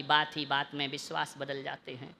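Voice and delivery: low, soft couplet line; hushed recitation. Real, not acted. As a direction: recite it quietly and gravely. Couplet first said low, then loud.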